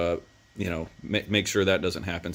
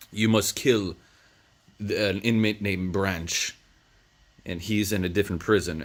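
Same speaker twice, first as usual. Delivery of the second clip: a hint of a sinister foreigner; creepy European man. Retelling the villain who threatens Vince, lightly creepy. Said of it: "this creepy European man".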